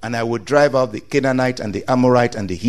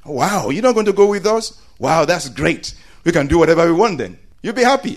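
put-on higher, gleeful kid voice; mock excited child; 5 semitones higher, faster than usual. Preacher voicing children glad the parent stays behind, excited. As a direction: play the child thrilled to be left alone. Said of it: "if you are a child".

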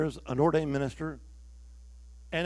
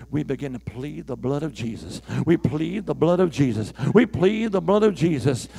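mounting prayer; 5 dB louder than usual. Retold or imitated. Retold prayer building in intensity.

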